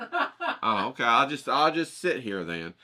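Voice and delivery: high, half-laughing sulky voice; mock sulky. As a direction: play the abandoned martyr, lightly. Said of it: "I'm like".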